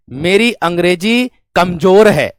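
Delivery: slow, deliberate reading; slow example reading. Shown as a demonstration. Teacher reads the example slowly for students. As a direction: spell the sentence out slowly. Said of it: "परिणाम दर्शक मेरे दोस्त ऐसे हो जाएगा".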